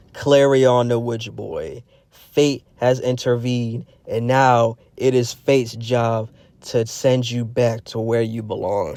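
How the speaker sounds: slow, measured hint of a solemn judge; pronouncement of Fate. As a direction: lightly act out a formal decree, word by word. Voices Fate's solemn pronouncement.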